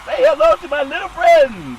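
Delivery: hammed-up Scarface line; mock movie tough guy. Quoted movie line after call.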